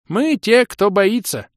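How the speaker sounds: put-on high, loud, chanting old creature voice; mumbling old creature. A narrator's reading. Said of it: "прошамкал лохр".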